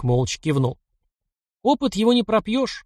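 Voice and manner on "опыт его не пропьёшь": high, playful jab; amused, bright-eyed ribbing; merry. A narrator's reading. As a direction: tease him cheerfully. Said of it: "продолжал веселиться парень".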